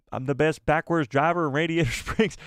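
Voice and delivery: light tow truck twang, laughing; a quick lightly voiced Mater line; Tow Mater impression. Streamer laughing at chat, a lightly voiced Mater. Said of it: "I sounded like Tow Mater".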